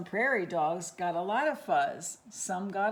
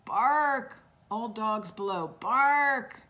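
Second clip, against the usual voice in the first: alarm call; 4 dB louder, slower than usual. Acted. Alarm call about eagle.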